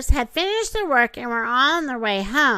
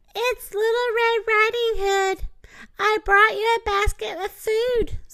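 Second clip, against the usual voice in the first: very high, squeaky voice; 9 semitones higher than usual. The wolf at grandma's door pretends to be the little girl, squeaky Little Red Riding Hood imitation. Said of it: "squeaked the wolf, trying to imitate the little girl's voice".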